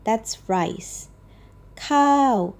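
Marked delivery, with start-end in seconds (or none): 1.8-2.5 ข้าว spoken with a clear falling tone, starting high and dropping. Shown as a demonstration. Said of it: "a falling tone".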